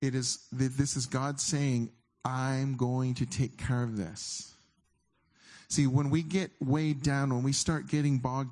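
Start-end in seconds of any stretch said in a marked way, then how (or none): 2.2-4.5 slow, calm, reassuring promise; gentle assurance. Shown as a demonstration. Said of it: "I want you to hear how it is".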